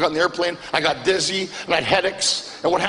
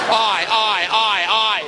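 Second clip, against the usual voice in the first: dismayed groan; 2 semitones higher, much slower than usual. Retold or imitated. Comedian groans at the compliment.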